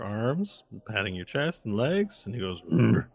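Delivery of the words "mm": short grunted "mm"; orc grunt. Acted. Orc finishes patting Varel down, grunting.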